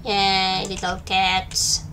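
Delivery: tender coo to the little cats. Real, not acted. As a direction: coo it out slowly like to a pet. Cooing at the game cats.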